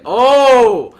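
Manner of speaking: a loud, high mock gasp of "Oh!"; mock surprise. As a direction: play it as a big cartoon realization. Retold shop scene, acted reaction.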